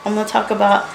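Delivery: quick, self-mocking excited rattle; pumped, full of energy. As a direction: reel off plans on and on. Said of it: "I was all pumped and full of energy".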